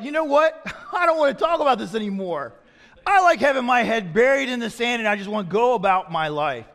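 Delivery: loud, high, laughing refusal; mock protest. Congregation tired of hearing Solomon, loud mock protest. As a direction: wave it all away, loud and high. Acting out people refusing to listen.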